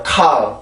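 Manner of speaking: 칼 with an aspirated English K; English 칼 sound. Shown as a demonstration. Teacher shows the English sound of 칼. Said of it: "영어로 칼이에요".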